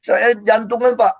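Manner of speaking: re-enacted urgent plea to a guard; calling for help. Panicking detainee calls the jail guard, urgent plea. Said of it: "saya panggil-panggil penjaga".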